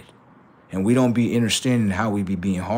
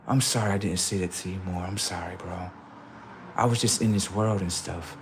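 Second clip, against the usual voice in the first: soft, low apologizing; re-enacted tender apology, lowered and hushed; sincere apology; 4 semitones lower, 8 dB quieter than usual. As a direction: own up gently to a brother. Retells apology to brother.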